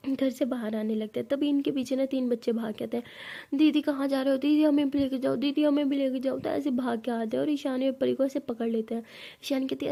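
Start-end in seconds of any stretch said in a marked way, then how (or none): 3.5-6.4 put-on children begging, a bit louder; whiny kids pleading to come along. (ज़िद करते बच्चे)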